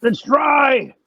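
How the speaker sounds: drawn-out redneck grumble; Hillbilly voice. Retold or imitated. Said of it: "That is a soundbite".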